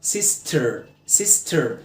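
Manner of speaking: سيستر with a low "err" at the end; correct ER ending. Shown as a demonstration. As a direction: repeat سيستر as "SIS-ter", falling. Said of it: "الإي آر قلتها إيه".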